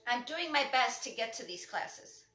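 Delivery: calm, accepting "I'm doing my best"; positive reframe. Retold or imitated. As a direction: say it kindly to yourself, with some lift on "my". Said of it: "what if you just said".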